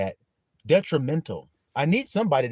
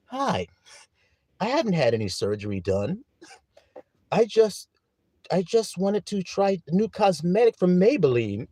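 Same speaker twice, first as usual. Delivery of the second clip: mock influencer voice; 3 semitones higher than usual. Preacher imitating a celebrity denying surgery, lightly voiced. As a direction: play a fake-innocent star denying surgery. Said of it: "niggas be on there like this".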